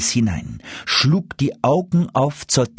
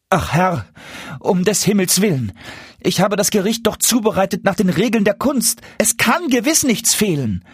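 much higher, frightened pleading; trembling plea; 11 semitones higher than usual. A narrator's reading. Dwarf pleads with the angry duke, frightened. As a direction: beg for your life, quavering. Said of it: "So sprach der Zwerg und zitterte".

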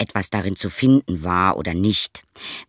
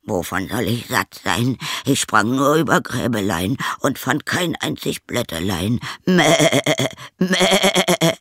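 spiteful goat voice; 2 semitones higher than usual. Acted. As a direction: bleat the lie out spitefully. Sly goat lies.

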